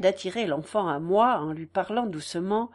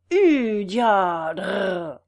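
louder carter's call to the horses; 2 semitones lower, 5 dB louder than usual. Acted. Farmer calling his cart horses, a louder call. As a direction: urge the horses on. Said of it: "en faisant".

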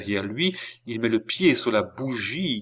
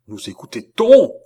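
alarmed, high, loud question; cri; 6 semitones higher, 11 dB louder than usual. A narrator's reading. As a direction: shout out, suspecting an eavesdropper. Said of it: "cria Philippe". (cri d'alarme aigu)

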